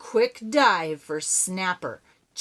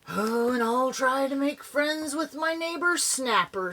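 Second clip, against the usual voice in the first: vowed; 7 semitones higher than usual. Acted. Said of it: "Spunky vowed".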